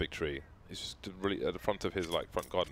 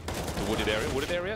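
puzzled question; 5 semitones higher than usual. Real, not acted. Puzzled echo of own phrase.

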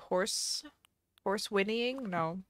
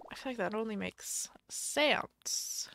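whisper; 4 dB quieter, slower than usual. Real, not acted. Musing about the stable wallpaper.

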